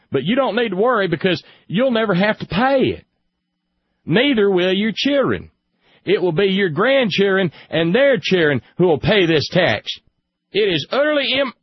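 loud, high-pitched mock redneck; hammed-up redneck twang, high and loud; funny redneck voice. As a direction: blare it out as a comic redneck. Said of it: "the funny little redneck voice".

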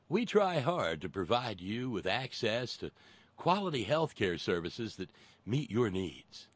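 polished corporate ad read; marketing voice. Shown as a demonstration. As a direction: read it like a slick marketing pitch. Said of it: "I gotta use my marketing voice for this".

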